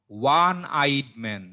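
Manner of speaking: ওয়ান slowly sounded with an opening "wa"; slow, careful ওয়ান eyed man, starting on a "w" glide; pronunciation demo. Shown as a demonstration. Teacher quizzes students on the article, slowly sounding ওয়ান with "wa". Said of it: "দেখো ওয়া উচ্চারণটা হইছে".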